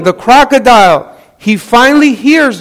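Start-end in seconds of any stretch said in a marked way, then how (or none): 0.0-1.1 mock yell. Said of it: "she's yelling".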